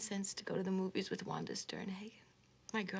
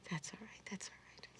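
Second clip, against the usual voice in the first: hushed, trailing into near-whisper; soft reassurance; 9 dB quieter than usual. Acted. Fan excusing the unanswered letter, soft reassurance. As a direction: gently let it go, very softly.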